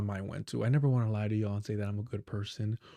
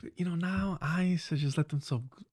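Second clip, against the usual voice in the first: mock nostalgic; 3 semitones higher than usual. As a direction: reminisce about an ex, mockingly. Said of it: "when the Democratic Party was dating ice".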